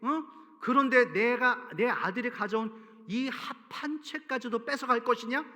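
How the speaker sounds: a loud, heated comeback that cools at the end; angry retort. Acted. Leah firing back at Rachel over the husband, heated. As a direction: hit back hard, then sneer the last question. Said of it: "언니도 맞받아치는 거죠".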